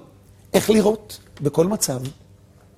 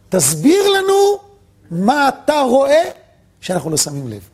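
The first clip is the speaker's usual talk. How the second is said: pleading sages; 5 semitones higher than usual. Retold or imitated.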